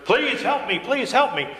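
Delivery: high-pitched pleading beggar, no real shouting; mock scream. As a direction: act out a beggar crying for help. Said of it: "some beggar starts to scream at you".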